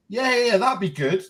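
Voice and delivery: re-enacted eager yes; eager agreement. Dad welcoming daughter's offer of Tottenham shirt, lightly acted eagerness.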